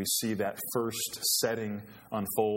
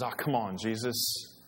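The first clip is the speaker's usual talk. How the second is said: cocky friend brushing off the warning; Peter piping up; 4 semitones higher than usual. Acted. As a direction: Peter boasting to Jesus that he'll stand firm. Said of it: "he pipes up and says".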